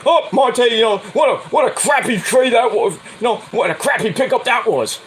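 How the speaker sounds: mock complaining fan. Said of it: "People complain".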